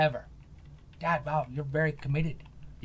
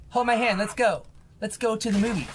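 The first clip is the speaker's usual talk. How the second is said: cute character voice; 7 semitones higher, 6 dB louder than usual. Acted. Voicing cute game companion.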